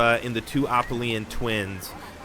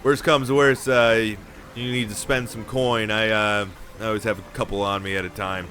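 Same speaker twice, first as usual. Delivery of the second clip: Manta Ray voice. Acted.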